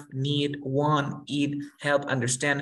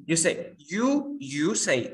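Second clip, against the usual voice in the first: slow teaching; 2 semitones higher, much slower than usual. Shown as a demonstration. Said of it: "You speak slow".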